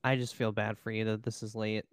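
soft whispered aside; whispering. Real, not acted. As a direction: whisper it to your co-host. Aside to co-host.

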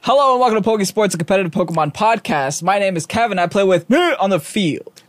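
fast upbeat host intro; trying for real. Shown as a demonstration. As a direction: give the opener real energy. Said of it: "I'm actually gonna try for this one".

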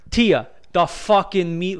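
slow tough-guy voice; lightly voiced mob guy; mob New Jersey guy. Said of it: "so mob New York".

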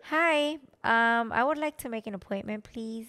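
a light customer-service voice for booking the dentist; white voice. Shown as a demonstration. Girlfriend shows her phone voice for appointments, lightly polite. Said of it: "Do you ever use your white voice?".

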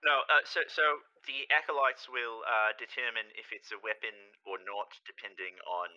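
nod and smile through the rules; lightly voiced, over-friendly official; overly friendly. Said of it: "nodding and smiling as he says it ... overly friendly".

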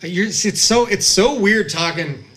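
whistling through the teeth; a whistle caught in the mouth; whistly voice. Real, not acted. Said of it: "I sound like Gopher Dad. Like I got a whistle in my mouth".

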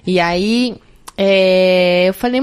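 normal talking voice

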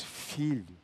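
a hint of God's tender voice; tender fatherly call. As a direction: call "Filho" gently like a loving father. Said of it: "posso ouvir a voz de Deus".

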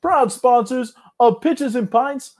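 slightly hammed-up official ad read; sponsor ad read. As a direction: read the sponsor copy like a host read.

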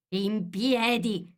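high, long-drawn command; loud shrill voice. A narrator's reading. Queen orders the gardeners up, loud and shrill. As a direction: order them up, stretching each syllable high. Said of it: "con voce forte e acuta".

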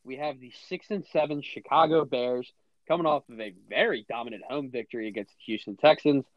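announcer read. Acted. Reads game preview like announcer.

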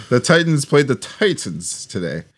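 "Titans" said two different ways, drawn out; differently pronounced Titans. Shown as a demonstration. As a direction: slowly set one "Titans" against the other "Titans". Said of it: "You pronounce it differently".

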